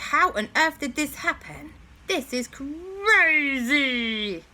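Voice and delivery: high, slow shocked cry. Acted. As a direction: gasp it out in disbelief. Characters alarmed at flipped transporter.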